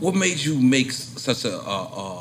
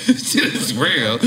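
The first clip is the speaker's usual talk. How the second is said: laughing; much slower than usual. Real, not acted. Laughing at the Will Smith story.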